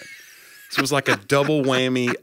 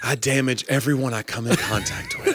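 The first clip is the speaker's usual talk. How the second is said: mock confession; 3 semitones higher than usual. Host imitating co-host's awkward mic confession, mock melodrama. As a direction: lay on the wounded self-pity, half whispered at first.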